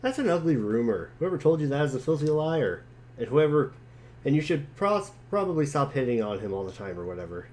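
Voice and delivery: lightly voiced jokey boy. John brushing off his friend's teasing, quick and breezy. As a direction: rattle it off like a cheeky kid. Reads John's chat lines.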